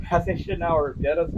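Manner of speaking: ordinary delivery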